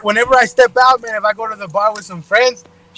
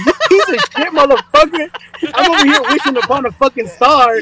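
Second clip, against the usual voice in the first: higher-pitched, mildly angry rant; mock angry tirade; 5 semitones higher than usual. Friend berating a homegirl's useless lover, mock angry. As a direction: play at chewing someone out. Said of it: "beat the shit out of him and be like".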